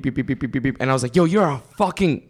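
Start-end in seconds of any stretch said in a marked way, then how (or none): 0.0-0.8 imitated string of quick little beeps; little machine beeps. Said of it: "she does a little beep". 1.1-2.2 higher-pitched mock outburst; retold cursing. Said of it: "cursing at him".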